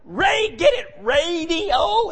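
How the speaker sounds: slow, drawn-out retold punchline; mock-explaining, dragged out slowly. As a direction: stretch it out as if they should get it. Explaining joke to confused listeners.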